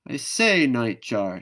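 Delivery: high, loud call to the bird. Acted. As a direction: call out into the dark. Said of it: "she said".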